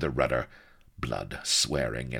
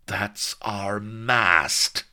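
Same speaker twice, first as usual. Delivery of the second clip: drawn-out, higher sarcastic put-down; caustic; 6 semitones higher, 4 dB louder, much slower than usual. A narrator's reading. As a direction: stretch it out slowly with scorn. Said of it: "said Blood caustically".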